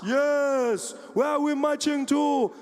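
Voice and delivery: high, loud, slow rally speech; chanting orator's call; Julius Malema. Retold or imitated. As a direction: rouse the crowd as a political leader. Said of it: "Every day he was there".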